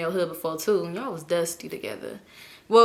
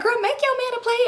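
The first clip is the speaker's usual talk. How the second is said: imitating family. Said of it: "They was like".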